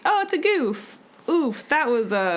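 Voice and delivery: hammed-up dismay; mock reaction. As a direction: play someone judging a goof.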